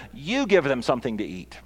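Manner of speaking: "You" punched at the front of the phrase; stress on You. Retold or imitated. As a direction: lean hard on "You", then let the rest fall. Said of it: "This is what the emphasis is".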